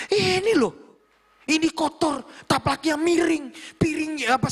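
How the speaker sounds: very high, stretched scolding; imitated angry rant. Young boss pointing out dirty tables to staff, mock angry rant. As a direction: rail at each fault like a fuming boss. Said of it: "dia marah-marah, ngamuk-ngamuk".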